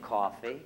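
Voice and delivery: coffee with an open AH vowel; corrected pronunciation. Shown as a demonstration. Trained actor showing what was learned, coffee in standard American. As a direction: say coffee carefully, without the Brooklyn AW. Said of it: "I can say".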